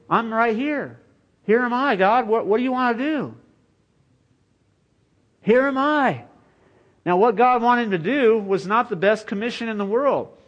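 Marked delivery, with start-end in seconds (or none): 0.1-6.2 higher, eager calling out; eager volunteer. Acted. Isaiah eagerly volunteering to God, excited. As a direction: call out eagerly, hand raised.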